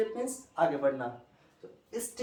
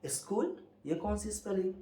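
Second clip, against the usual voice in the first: a puzzled, lightly surprised question; retold surprise; 2 semitones higher, 5 dB quieter than usual. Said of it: "मैंने कहा". (हल्की हैरानी से सवाल)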